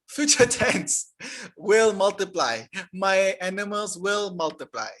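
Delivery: talking with a sore bitten tongue; tongue just bitten. Real, not acted. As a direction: speak through a bitten tongue. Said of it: "Ow, that hurt".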